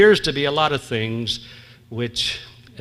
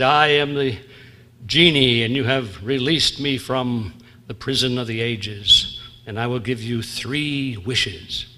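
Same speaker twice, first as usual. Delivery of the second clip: booming genie; slower than usual. Acted. Genie announces himself in joke.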